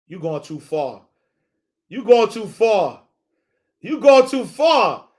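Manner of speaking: rising indignant refusal; building protest. Retold or imitated. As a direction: push back harder each time. Repeats building louder.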